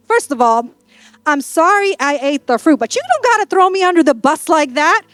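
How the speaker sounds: mock-indignant wife starting her comeback; wound-up arguing. Eve telling Adam off for blaming her, wound up. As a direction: play a wife objecting point by point. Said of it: "fighting like this".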